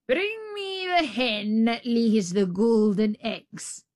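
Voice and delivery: slow commanding ogre. Acted. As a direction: order it slowly, like a giant. Ogre orders wife.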